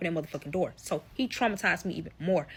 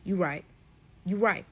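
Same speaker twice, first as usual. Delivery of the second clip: quick, much softer private thought; inner thought; 5 semitones lower, 6 dB quieter than usual. Retold or imitated. Realizing she told the husband she's pregnant, quiet and quick. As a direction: mutter it fast to yourself. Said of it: "in the back of my head like".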